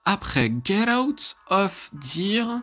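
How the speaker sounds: slow, halting French-accented English; clumsy English accent. Shown as a demonstration. Gamer reading the game's English intro aloud, in a clumsy English accent. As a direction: read the English game text in a bad English accent. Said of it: "Mon accent anglais est catastrophique".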